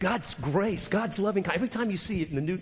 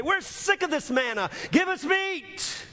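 mock whining Israelites; 13 semitones higher than usual.

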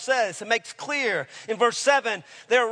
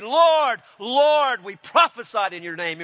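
raised, louder cries to the Lord, then settling; preacher voicing desperate claimants; imitated pleading crowd; 3 semitones higher, 5 dB louder than usual. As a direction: call out as those protesting on judgment day. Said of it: "many will say in that day".

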